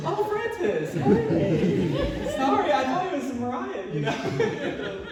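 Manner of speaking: very high, embarrassed greeting; loud, high, laughing apology; sheepish apology. Retold or imitated. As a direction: imitate backpedalling after yelling at a guest. Sheepish apology acted amid laughter.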